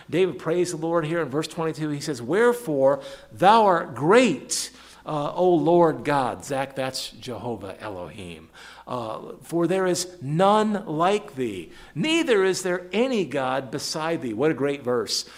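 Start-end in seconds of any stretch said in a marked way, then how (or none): 2.2-6.4 loud, slow proclamation of praise; ringing, drawn-out verse reading; emphatic scripture reading. Acted. 9.4-14.3 raised, slowed scripture reading; weighty, drawn-out verse of praise; emphatic scripture reading. Acted. Reads scripture aloud with emphasis.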